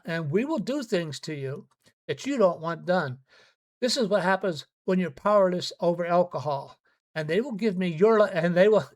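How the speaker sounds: a touch of a stern doctor's warning. Retold or imitated. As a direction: warn them hard, like a doctor who has seen it. Quoting his own warning at meetings.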